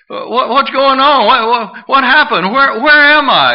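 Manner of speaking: high, stammering mock confusion; flustered, repeated half-started questions; bewildered awakening. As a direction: play a man waking up startled and lost. Imagines revived man waking up.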